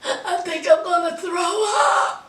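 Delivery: laughing while faking nausea; half-laughing mock queasy wail; mock distress through laughter. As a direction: play Rebecca's sick act, cracking up. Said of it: "here's Rebecca".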